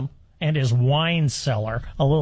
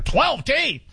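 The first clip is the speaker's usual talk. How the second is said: "twelve" pushed higher in disbelief; incredulous; 6 semitones higher than usual. Real, not acted. Host repeating the vet's count in disbelief. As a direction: echo "twelve teeth?" as if you can't believe it.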